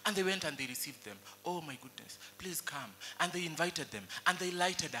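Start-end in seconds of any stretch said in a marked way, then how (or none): 1.4-2.9 soft, low, gently voiced welcome; acted compassion. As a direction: quietly take in strangers with pity. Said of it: "they were filled with a lot of compassion".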